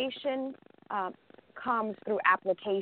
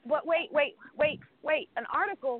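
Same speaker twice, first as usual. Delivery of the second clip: imitating her own panic on the phone; mock panic; 3 semitones higher than usual. Retelling to her guest, she acts flustered panic. Herself panicking in retold call.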